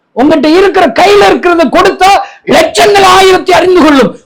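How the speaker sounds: high, urgent exhortation; impassioned preaching. Real, not acted. Preacher urging believers to give what they have, impassioned.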